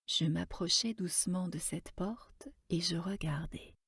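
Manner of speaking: hushed narration, barely voiced; whispered. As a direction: tiptoe with the voice, whispering. Approche discrète de la porte. (chuchoté, à peine soufflé)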